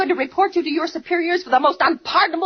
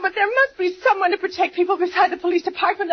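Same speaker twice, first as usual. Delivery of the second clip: tearful plea; 3 semitones higher than usual. Acted. Pleading in tears.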